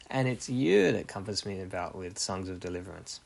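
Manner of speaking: "you" swooped up, the rest settling back; stress on YOU. Shown as a demonstration. Preacher paraphrasing the verse to God, emphatic YOU. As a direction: make "you" the peak of the sentence. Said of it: "the emphasis makes it the focus".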